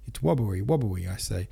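"wobbly" for robbery, r turned to w; r's as w's. A narrator's reading. Denisov protesting the accusation, "wobbly" with w for r. Voiced Denisov with speech impediment.

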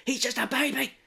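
high squealed protest; mock hysterical mother. Mother hitting the man to protect her son, mock hysterical. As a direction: wail it in hammed-up outrage.

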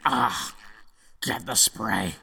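very soft, faint last words; weak dying voice. Acted. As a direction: fade out like a dying king.

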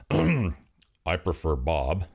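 slow, dry grim voice; slow Reaper voice. Acted. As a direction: drawl it slowly like Death.

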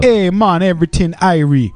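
put-on Jamaican accent. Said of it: "I can do a Jamaican accent".

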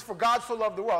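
high, loud, eager verse quote; excited quoting. Acted. New fan arguing he's saved, excitedly quoting the Bible. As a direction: proclaim it like proof you've just found.

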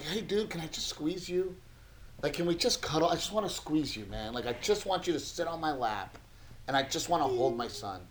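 put-on hushed and tender, like wanting to hug your little boy; quietly, lovingly wishing to cuddle; soft tender longing. Dad longing to cuddle sick son.

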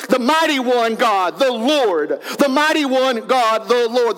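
slow, weighty declaration, each name stressed; emphatic repetition. Acted. Tribes answering the heads of Israel, emphatic declaration. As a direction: declare it slowly, with exclamation marks. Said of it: "shouting it, making it loud".

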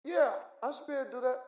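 acting out a half-hearted yes; doubtful promise. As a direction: promise it without believing it. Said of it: "he said it with doubt".

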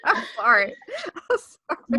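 apologising through laughter; punchy giggles breaking into the apology. Real, not acted. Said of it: "I'm punchy".

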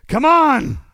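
high, loud plea at the game; frustrated shout. Real, not acted. Streamer yells at the game for a drop, frustrated. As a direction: shout it at the screen, begging.

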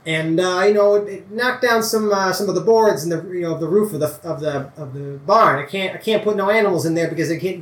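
a lightly voiced country farmer, anxious; old farmer Pa. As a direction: plead politely for help with the barn. GM holds farmer Pa voice.

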